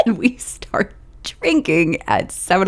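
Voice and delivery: a hushed, confiding whisper; conspiratorial whisper. Real, not acted. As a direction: whisper it like a guilty secret. Confessing morning drinking aside.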